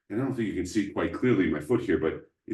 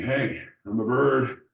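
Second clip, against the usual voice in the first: playful bird voice; 5 semitones higher than usual. Acted. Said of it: "looking around saying".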